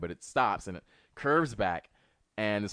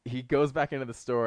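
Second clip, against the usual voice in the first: ordinary talk, nothing marked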